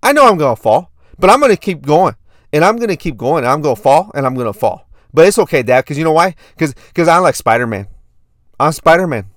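put-on loud, earnest little-kid voice; impression of a young son reassuring Dad; four-year-old son. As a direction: insist like a plucky small boy. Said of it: "do my best impression of my son".

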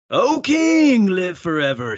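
high, loud proclamation; booming high "O king"; dramatic call. Acted. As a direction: cry it out high like Daniel from the den. Daniel answers the king dramatically.

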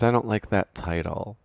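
lightly voiced mom; a hint of a prim mother. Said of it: "this is my mom voice for today".

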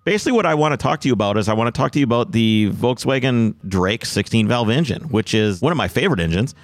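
glitchy phone line audio; buzzy glitchy call audio. Real, not acted. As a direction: voice through a bad call connection. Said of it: "I had a little bit of a bad connection".

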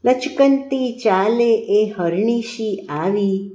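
very slow, lingering verse; poem recitation. A narrator's reading. Tutor finally reciting his poem to the pupil, slow lyrical delivery. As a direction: linger dreamily over each phrase of verse. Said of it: "હવે સાંભળ".

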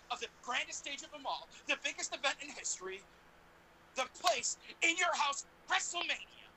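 rising announcer build-up; announcer hype. Pretend. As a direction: sell WrestleMania big. Hyping WrestleMania.

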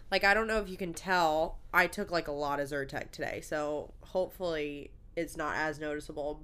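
stuffy nasal voice from allergies. Real, not acted. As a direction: talk with a blocked nose. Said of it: "You sound a little nasally".

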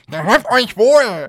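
langsam, hoch und feierlich; pathetischer Abschied. Pretend. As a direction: wie ein Ritter verabschieden. Theatralisch wiederholter altertümlicher Gruß. (übertrieben feierlich)

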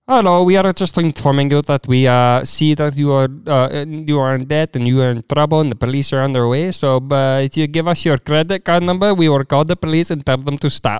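put-on insistent comic Indian accent; Indian scammer. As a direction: imitate an Indian scam caller. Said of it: "those call centers that try".

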